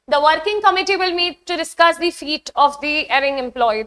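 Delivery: slow, deliberate test-sentence read; teacher reading an exam question aloud slowly. Shown as a demonstration. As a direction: read the sentence word by word for the class.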